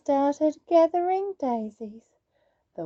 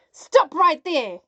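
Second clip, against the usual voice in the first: yelled; 4 semitones higher, 5 dB louder than usual. Acted. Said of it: "yelled Granny".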